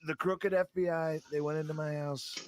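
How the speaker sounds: Trump impression. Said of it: "For Mister Trump".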